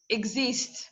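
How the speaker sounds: exist with stress on the second syllable; ex-IST, said as a lone example. Shown as a demonstration. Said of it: "stressed at the second syllable".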